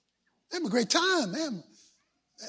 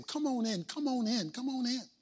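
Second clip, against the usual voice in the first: gentle pleading; 10 dB quieter than usual. Acted. Father pleading with his angry son outside, soft coaxing. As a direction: coax him inside softly. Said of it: "began pleading with him".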